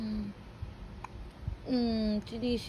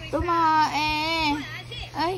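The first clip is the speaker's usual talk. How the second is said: surprised exclaim; 2 semitones higher than usual. Real, not acted. Baby pooped, exclaiming.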